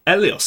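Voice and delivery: "Elios" with no H and an open "eh" at the start; H dropped, alternative vowel. Shown as a demonstration. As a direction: say "Elios" as "ELL-ee-os", without any H. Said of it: "they just don't say H sounds".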